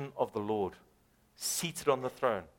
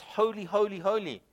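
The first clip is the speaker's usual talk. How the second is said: crying out; 6 semitones higher than usual. Retold or imitated. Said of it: "They, they are crying out".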